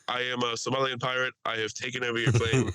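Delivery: put-on lightly accented Somali pirate captain; mock Somali pirate. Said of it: "picturing this guy being like".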